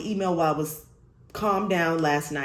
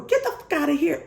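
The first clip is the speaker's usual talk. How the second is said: mock rude retort; 9 semitones higher than usual. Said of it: "she said something like".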